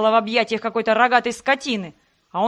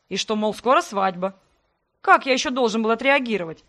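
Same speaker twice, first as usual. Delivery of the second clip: raised voice. Acted. Sebastian raises his voice defending himself to her. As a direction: raise your voice back at her. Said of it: "Тоже повысил голос Себастьян".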